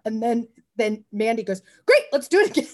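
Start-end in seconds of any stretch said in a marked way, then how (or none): 1.9-2.7 high and louder, thrilled; delighted co-star. Retold or imitated. Mandy to the crew after the wild take, thrilled cheer. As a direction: beam and ask for another take.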